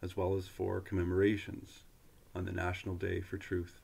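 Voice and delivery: measured, fluent announcement reading; formal read-aloud. Real, not acted. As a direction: read it out like an official notice, phrase by phrase. Reads a government web page aloud.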